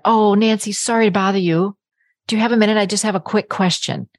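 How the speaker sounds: hesitant, apologetic ask; timid, self-undermining request. Shown as a demonstration. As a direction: sound sorry to be bothering her. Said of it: "Do you see the total difference in that?".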